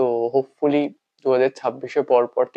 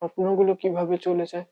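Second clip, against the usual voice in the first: hushed, halting monologue with long pauses; heartbroken lover; 7 semitones higher than usual. Acted. Bereft lover speaking to the one who is gone, heartbroken.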